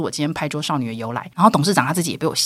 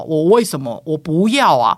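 loud refusal; 5 dB louder than usual. Retold or imitated. She refuses loudly.

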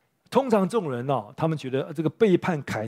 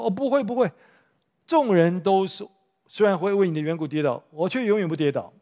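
eager protest; 4 semitones higher than usual. Retold or imitated. Peter protests to Jesus.

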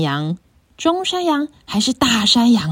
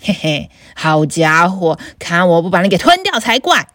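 lower, gruff troll threat; a bullying troll, lightly lowered; big troll; 6 semitones lower than usual. Acted. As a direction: growl it like a hungry troll. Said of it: "大妖怪说".

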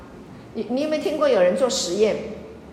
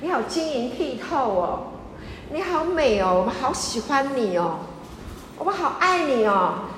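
tender praise. Retold or imitated. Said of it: "大家都跟他说".

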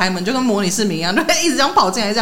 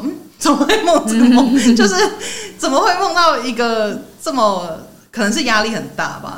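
laughing; 3 semitones higher than usual. Retold or imitated. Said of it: "然后我想说".

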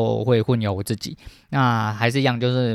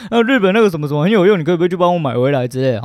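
mocking a shameless favor-asker; 4 semitones higher than usual. Mimicking a shameless friend asking for Japan shopping, whiny. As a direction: needle it like someone begging favors abroad. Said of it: "你总是出国就会有一些不要脸的人".

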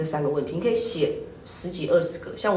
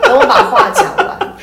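voice cracking; 11 dB louder than usual. Real, not acted. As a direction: voice cracks high while laughing. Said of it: "破音了". (笑着破音)

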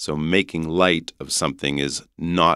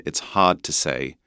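English "hard" with the R dropped; English accent. Shown as a demonstration. Teacher contrasting two accents, English accent. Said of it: "would be English accent".

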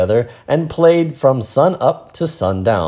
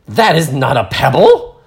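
know-it-all; 5 semitones higher, 5 dB louder than usual. Acted. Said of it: "she has to be really nerdy".

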